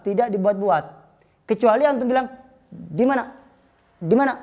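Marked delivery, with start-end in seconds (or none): 2.7-4.3 "Di mana?" with every vowel kept short. Shown as a demonstration. Teacher demonstrates short qasr vowels, clipped. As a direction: clip "Di mana?" short, no lengthening. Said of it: "itu qasr namanya, pendek".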